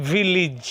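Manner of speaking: "ভিলেজ" as vi-lij with pressed J; strong J in village. Shown as a demonstration. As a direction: finish "ভিলেজ" on a firm J. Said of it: "strong জ।". ("ভিলেজ"-এ শেষে স্পষ্ট জ, ভিলিজ)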